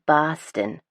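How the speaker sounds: Boston the Southie way, dropped r, broad vowel; Southie Boston accent. Shown as a demonstration. Narrator showing how Southie locals say it, Southie Boston accent. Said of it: "If you're from Southie, it's".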